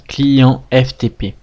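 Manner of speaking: client F T P said slowly, letter by letter; slow dictation. Shown as a demonstration. Teacher dictating client F T P slowly to viewers taking notes. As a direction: spell out client F T P slowly so they can write it. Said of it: "Je vais vous le noter".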